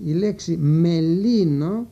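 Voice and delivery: «μελίνο» said slowly with a rising end; careful slow word. Shown as a demonstration. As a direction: draw attention to «μελίνο» by slowing down. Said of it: "προσέξτε λιγάκι αυτή τη λέξη". (αργή προφορά του «μελίνο» για προσοχή)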